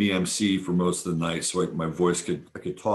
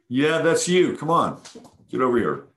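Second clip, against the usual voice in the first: high sing-song calling to a pet; high coaxing pet voice; high cooing call to the cat; 7 semitones higher, 5 dB louder than usual. Retold or imitated. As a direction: coax the cat over in a high voice. Calling cat to come over.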